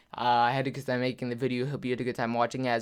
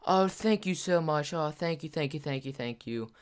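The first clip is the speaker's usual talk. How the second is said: gushing thanks; 3 semitones higher than usual. Retold or imitated. Mom thanks the stranger who bought the meal, gushing. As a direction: imitate a mom effusively thanking someone.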